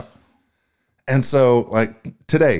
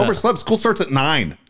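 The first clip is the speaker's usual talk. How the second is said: disbelieving echo of OVERSLEPT, pitched up; incredulous retort; 4 semitones higher than usual. Retold or imitated. Coach questioning a late student's excuse, incredulous. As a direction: throw the excuse back as a question.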